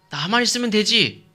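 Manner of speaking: high-pitched, breezy dismissal; self-assured husband. Acted. Husband brushing off his childless wife's grief, self-assured. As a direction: brush the worry aside, sure of yourself. 남편의 자신만만한 말 연기.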